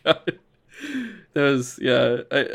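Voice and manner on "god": slow "oh my God" through laughter; laughing disbelief. Retold or imitated. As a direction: let the laugh spill into it, stretched out. Reacting to gas station hot dogs.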